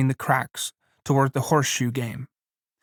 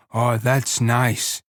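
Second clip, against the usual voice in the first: slow, savoring and contented; dreamy pleasure; 2 semitones lower, much slower than usual. Acted. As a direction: drawl it out dreamily. Lenny savoring stroking hair.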